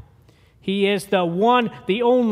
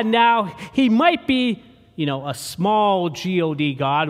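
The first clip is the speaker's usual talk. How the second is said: Arius arguing; 4 dB louder than usual. Retold or imitated. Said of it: "and he says".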